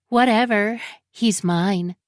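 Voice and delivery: flippant, loud brush-off; dismissive. Retold or imitated. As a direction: toss it off like she doesn't care. Imagined rival's dismissive reply.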